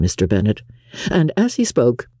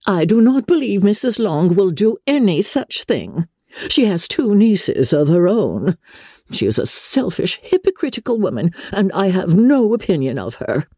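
high, indignant matron voice; indignant mother; 8 semitones higher than usual. Acted. Mother disparaging Missus Long to the family, indignant. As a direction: disparage the neighbour in a high, huffy voice.

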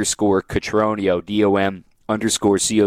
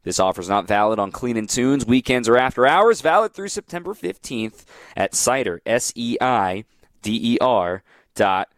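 ad read. Acted. Live sponsor read.

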